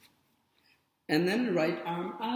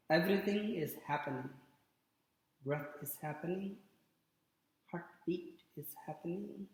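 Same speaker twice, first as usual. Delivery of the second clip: softer, calm meditation guidance; guided meditation; 3 semitones lower, 6 dB quieter than usual. Real, not acted. Yoga teacher guiding resting students to watch the breath, soft meditation. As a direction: lead them into quiet watching, pausing between phrases.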